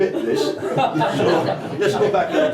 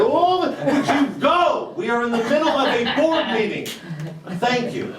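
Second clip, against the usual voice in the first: American CEO shouting; 4 semitones higher than usual. Acted. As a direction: bark him out of the meeting. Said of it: "American C E O".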